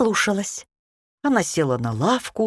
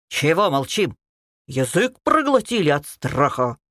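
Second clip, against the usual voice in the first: menacing. Acted. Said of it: "грозно спросила Красная Шапочка".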